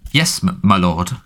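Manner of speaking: slow, halting gasped reply with a stammer; a small man caught out, stumbling over the words in fear; frightened gasp. A narrator's reading. Wormtail gasping an answer to his angry master, slow and fearful. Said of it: "gasped a small man".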